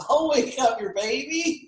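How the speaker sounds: high, slow put-on voice; hammed-up high-pitched impression; mock film character. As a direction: imitate a silly baby-waker, drawn out. Acts out the birth scene.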